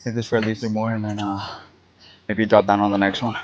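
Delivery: winded between sets; panting through the words; out of breath. Real, not acted. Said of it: "I just need to catch my breath".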